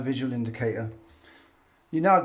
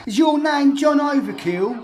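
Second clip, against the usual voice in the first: higher and louder, laughing, slow; laughing mock repeat; 11 semitones higher, 8 dB louder than usual. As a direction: repeat it again, cracking up. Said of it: "the one who Spectrum said".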